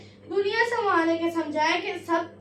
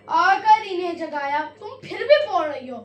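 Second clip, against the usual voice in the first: scolding; 5 dB louder than usual. Real, not acted. Scolding talking student.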